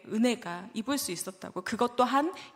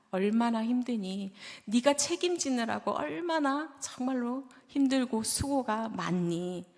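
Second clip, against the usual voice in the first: tender encouragement. Retold or imitated. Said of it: "이렇게 말씀하시고 격려하시고".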